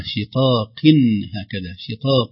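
شقاق ending in a clear "-in"; tanween. Shown as a demonstration. Teacher showing the spoken nun, tanween. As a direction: pronounce شقاق with its final nun sounded. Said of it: "كلمة منونة".

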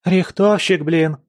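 high wail from inside a hole; trapped friend wailing from the burrow; muffled wail. A narrator's reading. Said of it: "приглушённый вопль из норы".

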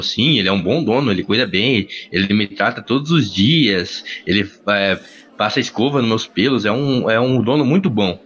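a hint of a calm old horse; talking horse. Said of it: "o cavalo falou". (voz de cavalo levemente mais grave e lenta)

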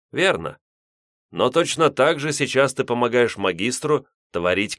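lightly voiced stern old priest; a hint of a grave elder explaining. Old priest speaking in dream.

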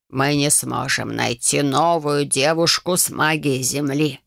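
put-on low, slow creaking old voice; creaky old man. A narrator's reading. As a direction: grate it like rusty door hinges. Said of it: "прошипел Конрад". (скрипучий голос старика, медленно и низко)

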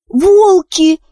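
high, bright exclamation; excited cry. Acted. Wish reminding her mother, high and excited. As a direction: blurt out the memory eagerly. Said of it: "воскликнула Виш".

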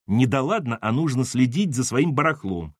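firm retort in an adult register; scolding mother. Acted. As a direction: throw the child's words back at him. Mother throws child's words back.

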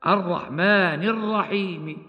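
الرحيم ending with a faint whispered trace of the kasra, slow; rawm. Shown as a demonstration. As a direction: recite الرحمن الرحيم with a barely audible i on the م of الرحيم. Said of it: "هكذا".

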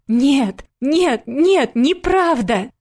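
high, loud tearful repeated no; high loud desperate child's cry; desperate child's denial. A narrator's reading. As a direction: plead it out like a sobbing little girl. Sonya keeps crying out.

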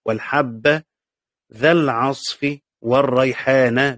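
نطق "ذا العصف والريحانَ" ببطء; قراءة بالنصب؛ slow recitation with ذا and والريحانَ. Shown as a demonstration. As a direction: read it carefully with the accusative endings. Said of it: "بالنصب،".

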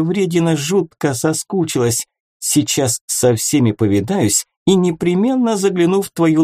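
high, bright little fairy; chirpy fairy voice. Acted.

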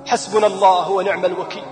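low, soft, heavy-hearted recitation; grieving prayer. Retold or imitated. After the sister's death, a low, soft grieving prayer. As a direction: murmur the words of surrender in grief.

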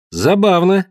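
high mocking amusement. Girl to Dikar, high mocking voice. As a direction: scoff at his question.

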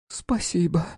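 a touch of hoarseness, high; raspy little thank-you; slightly hoarse. A narrator's reading. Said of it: "чуть хриплым голосом произнесла она".

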